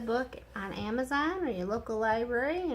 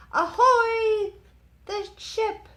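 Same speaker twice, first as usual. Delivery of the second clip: loud sailor's hail, pitched high; yelled; 11 semitones higher, 9 dB louder, slower than usual. A narrator's reading. Hab greets Nate with a loud shout. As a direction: call out across a dock. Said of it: "he yelled".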